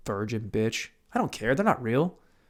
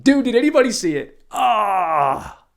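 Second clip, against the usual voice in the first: high, loud mock outcry; hammed-up shout; 8 semitones higher, 8 dB louder, slower than usual. Fan reacting to the Robinson fight, hammed-up high shout. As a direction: cry out as if watching a knockout, hammed up.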